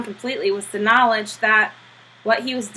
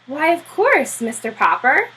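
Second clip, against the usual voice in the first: Admiral voiced; 5 semitones higher than usual. Admiral insists Popper comes.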